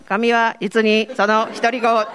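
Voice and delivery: slow, even robotic voice reading scripture; slow mechanical loudspeaker voice, half laughing; machine-like voice. Shown as a demonstration. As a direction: flatten it out like a machine speaking. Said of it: "機械のような声なんです".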